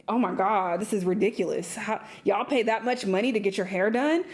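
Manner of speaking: lightly voiced shocked white girl; mock her gasping judgment; a hint of incredulous mock shock; mimicking her tone. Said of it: "that was her tone".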